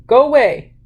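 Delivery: put-on loud angry toddler shout; furious child's shout. A narrator's reading. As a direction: yell it high and furious at the other baby.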